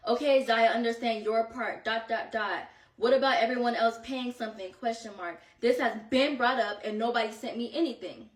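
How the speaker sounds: mildly sassy read-out of a friend's text; attitude. Retold or imitated. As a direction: imitate a pointed message, punctuation spoken aloud.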